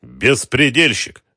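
very slow angry exclamation, Беспредельщик drawn out; angry repeat. A narrator's reading. Wholesaler angrily repeats the rival's label. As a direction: spit out Беспредельщик in anger. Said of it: "гневно повторил Мамед Ага".

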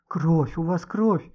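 usual speaking voice

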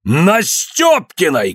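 медленно, высоко, с возмущением; выкрикнуть имя с негодованием; возмущённый крик. A narrator's reading. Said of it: "крикнул Иван Максимыч". (отец кричит на сына в гневе)

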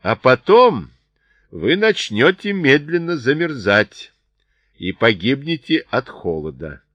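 loud, high threat that settles at the end; shouting down. A narrator's reading. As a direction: call out a measured warning. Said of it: "кричал им Чарли вниз".

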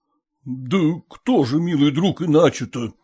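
usual speaking voice

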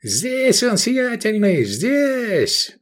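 high triumphant yell; yelled informer. A narrator's reading. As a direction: call out to the master, gloating. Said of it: "заорал в атриуме Мир Арзал".

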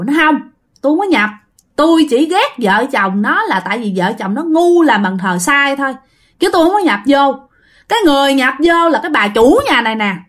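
high insistent ghost voice; ghost denying. Retold or imitated. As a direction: insist firmly she didn't possess anyone. Ghost denies possession. (hồn ma cãi lại, giọng cao)

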